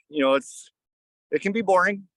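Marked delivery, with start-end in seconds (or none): 1.3-2.1 words breaking into a high laugh. Real, not acted. Telling the co-host about boring sits, laughing. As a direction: laugh through it, pitch jumping up.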